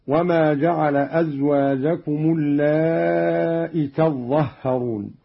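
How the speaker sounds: اللائي with long aa, then hamza and short i; اللائي without final ya. Shown as a demonstration. Teacher shows Qalun's reading, اللائي ending in a short hamza sound. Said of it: "لفظ اللائي بحذف الياء".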